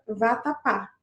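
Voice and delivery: "vatapá" slowly, weight on the last syllable "pá"; stress on final "pá". Shown as a demonstration. Teacher presenting an oxytone word, stressed final "pá". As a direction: land firmly on "pá" in "vatapá". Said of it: "com a última sílaba forte".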